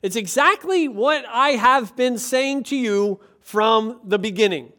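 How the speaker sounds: Jesus spelling it out to the crowd; patient exasperation. Retold or imitated. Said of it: "And Jesus is like".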